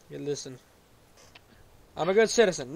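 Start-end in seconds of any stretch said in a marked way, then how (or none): 2.0-2.7 raised, insistent voice; shouting. Real, not acted. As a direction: call it out louder than normal talk. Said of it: "I'm just shouting".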